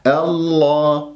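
slow, stretched الله with open lips; correct unrounded model. Shown as a demonstration. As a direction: hold the long vowel in الله, unrounded. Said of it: "ما تكور الشفاه".

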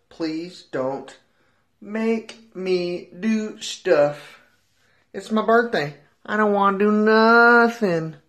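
slow, drawn-out pleading; mock plea. Birthday boy begging not to do chores, mock plea. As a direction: drag the words out, begging off.

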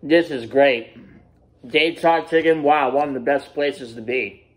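speaking with food in mouth; chewing while talking. Real, not acted. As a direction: mouth partly full. Seen 0: Bites slider before words, talks with cheeks moving, mouth full.

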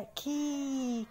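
كي held long as "kee"; kasra sound. Shown as a demonstration. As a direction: stretch the i vowel of كي, softly. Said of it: "لما نكسر كده وشفايفنا اللي تحت تنزل".

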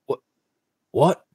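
can't believe the news; stunned disbelief. Real, not acted. Told he will be inducted.

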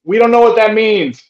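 high, loud exasperated protest; mock exasperated movie quote; Bill Murray. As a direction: call it out, baffled and fed up. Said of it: "Bill Murray goes".

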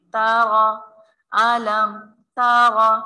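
तारा with a full, heavy रा. Shown as a demonstration. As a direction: make the रा in तारा thick. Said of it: "रा को मोटा पढ़ते".

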